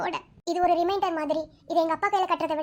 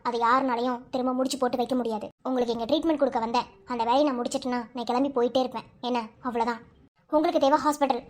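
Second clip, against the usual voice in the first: stern rebuff; 4 semitones lower than usual. Acted. Tells colleague not to interfere.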